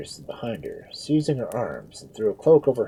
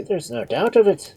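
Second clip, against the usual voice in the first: higher, louder insistence; emphatic confirmation; 10 semitones higher, 5 dB louder than usual. A narrator's reading. Father Murphy confirming the Duke's madness, emphatic. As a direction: insist on it firmly. Priest confirms his alarmed verdict.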